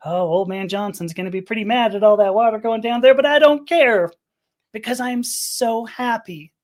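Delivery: building to a high, loud, carefree cry; swelling, reckless happiness in a retelling; retold giddy joy. Retells gleeful dancing in gushing water.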